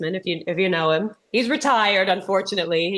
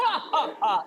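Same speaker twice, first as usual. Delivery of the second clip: fading villain cackle; 6 semitones higher, 4 dB quieter than usual. Pretend. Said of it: "laughing like a cartoon villain".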